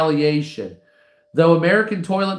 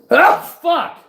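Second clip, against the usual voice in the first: blurted out mid sneeze; sneezing, words burst out high; 12 semitones higher, 6 dB louder than usual. Real, not acted. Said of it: "sorry about the, uh, sneezing there".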